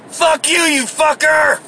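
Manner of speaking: high, hammed-up yell of abuse; mock angry yell. The rude driver shouting back at him, in a high mock yell. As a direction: throw it back like a furious stranger.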